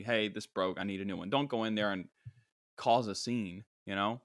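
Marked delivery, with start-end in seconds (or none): 0.0-1.3 polite request. Shown as a demonstration. Customer asking store for replacement, politely. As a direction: ask it mildly, without fuss. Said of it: "Just tell them politely".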